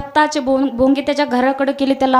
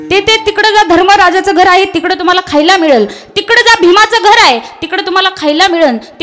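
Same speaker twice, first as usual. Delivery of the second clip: raised, higher voice sending beggars elsewhere; brisk mock directions, pitched up; acted pointing the way; 5 semitones higher, 4 dB louder than usual. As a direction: lightly act out waving someone on to another house. Acting out directing beggars away.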